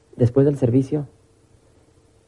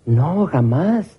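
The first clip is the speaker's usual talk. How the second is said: slow, stretched-out mock denial; lightly acted emphatic denial; 3 semitones higher, much slower than usual. Woman asked if she ever stole, lightly acted denial. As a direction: draw out both words, playing innocent. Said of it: "Hermana, ¿usted ha robado algo".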